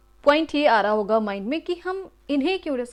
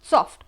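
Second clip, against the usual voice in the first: सॉफ्ट in one short, loud beat; single unbroken सॉफ्ट; 6 dB louder than usual. Shown as a demonstration. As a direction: say सॉफ्ट all at once, louder. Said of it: "एक ही बार में पूरा बोला गया".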